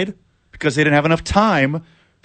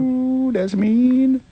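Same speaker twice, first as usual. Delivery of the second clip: mock offended; 11 semitones higher, much slower than usual. Real, not acted. Reacting to a jab.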